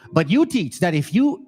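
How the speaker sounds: measured, careful scripture reading; slowed down. Real, not acted. Preacher rereading the verse for his audience, slowed down. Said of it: "Let me slow down".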